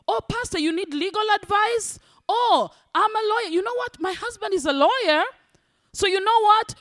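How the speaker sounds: lightly voiced eager volunteer; eager congregant. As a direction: play the keen helper volunteering to the pastor. Eager congregant offering services.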